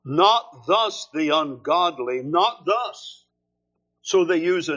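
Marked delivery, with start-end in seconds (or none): 0.0-3.2 "Not" pressed at the start and again at the end; emphatic negative. Shown as a demonstration. Preacher showing the double negative: "not" stressed twice. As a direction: land on "not thus" firmly. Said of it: "they use that for emphasis".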